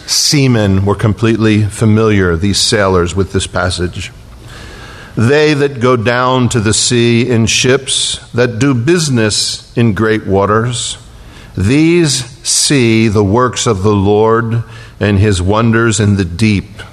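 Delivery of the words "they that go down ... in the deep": slow, measured Psalm reading; scripture reading. Acted. Preacher reading Psalm 107 to the congregation, slow and solemn.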